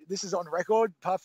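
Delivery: ordinary talk, nothing marked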